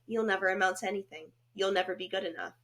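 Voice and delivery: understated imitation of a monotone voice. Co-host imitating a therapist tearing down a client, monotone. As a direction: keep it level, pleasantly unmoved. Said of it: "really monotone voice".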